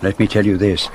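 put-on grand, deliberate French accent; French-accented detective. Detective rebuking his friend for carelessness, grand French accent. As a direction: reprove with dignity in a French accent. Poirot, a character in the drama.

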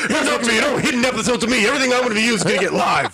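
fast, hyped wrestling promo trash talk; a hint of a brash wrestler cutting a promo. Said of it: "He comes in cutting a promo".

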